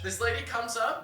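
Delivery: ordinary talk, nothing marked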